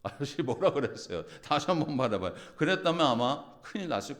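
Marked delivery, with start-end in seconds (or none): 0.0-2.3 defiant comeback. Retold or imitated. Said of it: "자존심 상하고".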